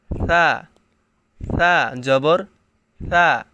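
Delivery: সা said with soft, light hiss. Shown as a demonstration. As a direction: say সা softly, no hard edge. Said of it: "এখানে নরম করে পড়তে হবে".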